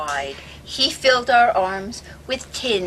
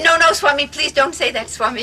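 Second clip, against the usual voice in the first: mock pleading; 5 semitones higher, 3 dB louder than usual. Pleading with Swami, retold.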